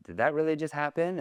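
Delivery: high-pitched incredulous question; stunned disbelief. Retold or imitated. Retelling stunned exit from meeting.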